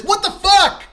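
comic indignation at a tiny gift; outraged. Real, not acted. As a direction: shriek at the insult of it. Outrage at tiny candy bar.

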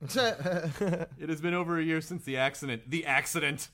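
slow, weighty dramatic reading; hammed-up, drawn-out gravity; portentous. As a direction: read it slowly like a solemn tragedy. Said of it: "I like how he says the accident".

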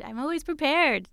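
confident. Real, not acted. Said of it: "Am I prepared?".

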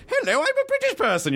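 very high, squeaky British caricature; hammed-up falsetto British accent; mock British accent. Host mocking himself to his British guest, silly British accent. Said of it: "the whole time I've been like".

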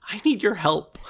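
breathy hushed squirrel begging for help; squirrel whisper. Acted. Game master voices a squirrel asking players for help, whispering. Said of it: "looks you right in the eyes and says".

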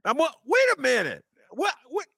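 high, loud cry of disbelief; can't believe what he just heard; stunned disbelief. Real, not acted. Host reacts to the convict's outburst with loud, high disbelief.

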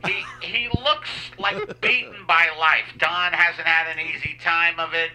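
stoned pilot PA voice. Pretend. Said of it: "this is the pilot".

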